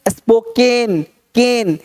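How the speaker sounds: स्पोकेन slowly, with full "ken" ending; sounded-out word. Shown as a demonstration. Teacher showing the vowel sound, drawn-out model. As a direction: stretch केन at the end of स्पोकेन. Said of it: "इस तरह से".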